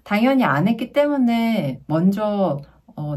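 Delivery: ordinary talk, nothing marked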